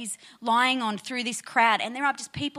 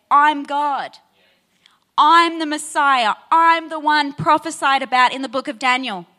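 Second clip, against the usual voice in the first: louder, firm declaration of identity; emphatic proclamation; 7 dB louder than usual. Acted. Pastor voicing Jesus to the Jews, loud and emphatic. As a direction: proclaim each I'm with weight.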